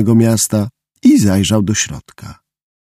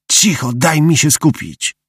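growled; 5 semitones higher than usual. Acted. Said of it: "warknął mały".

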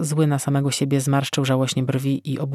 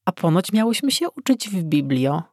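teasing; 4 semitones higher than usual. Acted. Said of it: "próbowała się ze mną trochę podroczyć".

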